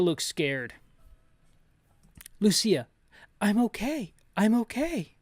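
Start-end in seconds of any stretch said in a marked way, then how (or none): 2.4-5.1 higher girl voice, badly done; bad Lucia voice. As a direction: squeak it like a young girl. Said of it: "I don't do a good Lucia voice".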